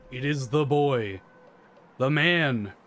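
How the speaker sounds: loud ringside announcer build-up; hype announcer. Acted. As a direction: announce the monster like a wrestling star. Hyping up the boss entrance.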